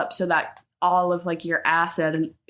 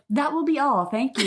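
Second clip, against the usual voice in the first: customer service voice; 5 semitones higher than usual. Retold or imitated. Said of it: "What is that voice?".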